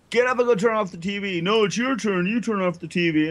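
bickering brothers. Retold or imitated. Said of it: "we always got in fights".

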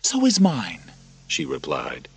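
very high, loud, pleading; desperate mother. Acted. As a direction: demand his trust for your child. Narrator voices Lucilla.

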